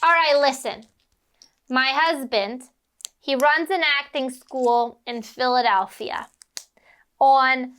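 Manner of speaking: lightly imitated smoker agent; a hint of pack-a-day agent giving instructions; Edie Robb. Agent telling kid about husband's school, lightly voiced smoker. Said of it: "and she goes".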